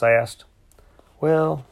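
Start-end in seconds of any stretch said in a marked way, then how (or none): 1.2-1.6 slowly. A narrator's reading. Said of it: "she said slowly".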